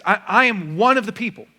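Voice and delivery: lightly mocking a political ad; campaign candidate pitch. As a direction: sell yourself as one of the people. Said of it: "And she says".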